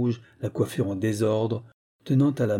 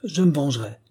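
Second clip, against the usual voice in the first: vowing revenge; 4 semitones higher, 3 dB louder than usual. Acted. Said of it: "d'une voix tonnante".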